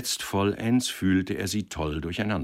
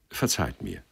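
lower, heartfelt apology; 7 semitones lower than usual. A narrator's reading. Girl apologising to the young man, heartfelt. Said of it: "sagte sie herzlich".

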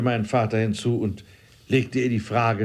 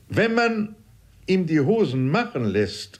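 much higher, louder exclaim; father raising his voice at the mother; father calls louder; 9 semitones higher, 5 dB louder than usual. A narrator's reading. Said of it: "rief mein Vater in einem lauteren Tone".

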